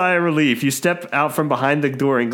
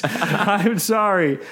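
small voice; 5 semitones higher than usual. Acted. Tiny mouse voice pleading.

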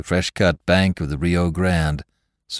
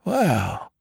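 wow; 9 semitones higher than usual. Acted. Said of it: "said the drummer, mopping his brow".

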